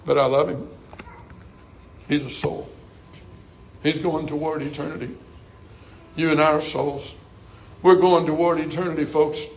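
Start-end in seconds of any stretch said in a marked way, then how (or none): 0.1-5.1 hushed, forgiving voice of God; tender divine pardon. Acted. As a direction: let it fall gently, with pauses between phrases. God's tender word after listing wrongs.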